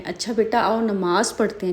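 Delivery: put-on soft, friendly coaxing of a small child; loving, friendly. Shown as a demonstration. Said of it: "بچوں کو پیار سے سمجھائیں".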